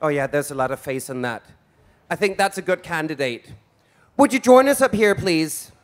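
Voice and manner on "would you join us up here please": calling out to the audience. Real, not acted. Host calling volunteer on stage.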